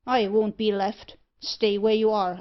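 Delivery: loud, angry order; refusing to be left behind, angrily; angry command. Acted. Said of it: "cried Thorneycroft angrily".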